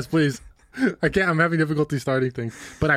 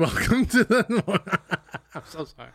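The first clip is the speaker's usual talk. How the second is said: giggling through the words; cracking up mid line; laughing; 4 semitones higher than usual. Real, not acted. Breaks character laughing.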